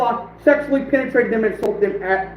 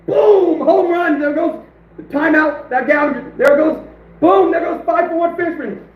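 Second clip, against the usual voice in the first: high, gleeful victory call; triumphant sports-call gloat; excited gloating; 4 semitones higher than usual. Real, not acted. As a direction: crow over the ban like a home run. Celebrating the timeout.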